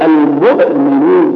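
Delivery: المؤمنون slowly, the hamza jabbed hard; over-press the glottal stop in المؤمنون; forced hamza. Shown as a demonstration. Teacher showing overdone articulation, forced hamza in المؤمنون. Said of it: "لا يتعسف في نطقه بحيث يضطرب".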